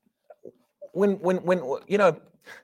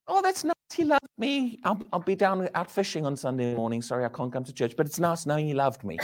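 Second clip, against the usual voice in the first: mock casual listener; 3 semitones lower, 5 dB quieter than usual. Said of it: "They've either got a good, you know".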